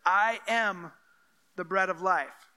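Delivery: weighty, with a pause after AM; firm, deliberate declaration; emphatic repetition. Acted. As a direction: punch I AM, then pause. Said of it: "Again, he says it".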